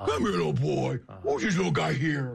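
rough, creaky voice people use when talking to dogs. Retelling greeting a dog at a dog park, talking to a dog voice. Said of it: "I turned into the dog voice guy".

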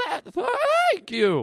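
very high voice cracking mid-word, stammering. Acting out a young boy thanking a club bouncer: voice cracking. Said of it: "Did your voice just crack, son?".

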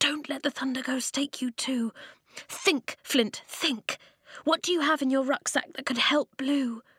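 hurried, pressing whisper. Narrating Eska's urgent words to Flint, whispered. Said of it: "she whispered".

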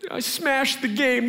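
play-acted tearful crying in a high, slow, teary voice. Parent retelling what the daughter said at the stairs: imitating a daughter crying. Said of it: "She's crying".

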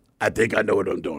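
low, gruff, brusque voice. Retelling how Joel answered being told not to use that knife: Joel's gruff voice. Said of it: "gruff voice".

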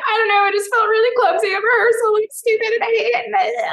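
acted, very high sobbing through every word. Retelling own answer while hiding in a closet: imitating own sobbing. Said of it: "I'm sobbing".

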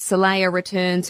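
ordinary delivery

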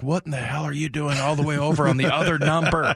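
mild, play-acted berating shout. Recalling watching the replay, hearing Rusty Tillman: imitating Rusty Tillman screaming. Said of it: "Rusty Tillman in my ear screaming at me".

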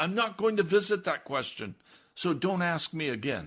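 high, angry screaming. A pastor retells a church member's reply to him, imitating a woman screaming. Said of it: "she began to scream at me".

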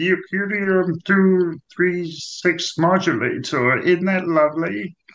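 high, very slow, drawn-out cartoon alien voice. Joking about living on Mars, doing a Marvin the Martian voice. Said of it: "With Marvin the Martian".

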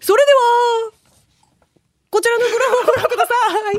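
high, quick, theatrical stage voice. A speaker describes how people judge her way of talking: Takarazuka Revue stage voice. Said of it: "宝塚過激団の口調で".

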